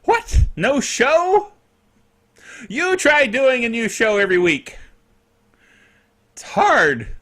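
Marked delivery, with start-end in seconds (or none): 0.0-0.5 much higher and louder what; the second what jumps up in disbelief; an emailing viewer's hammed-up outraged what; mock outrage. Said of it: "people that went". 0.6-4.8 mock indignant viewer. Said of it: "people that went".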